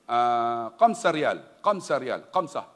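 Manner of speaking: usual speaking voice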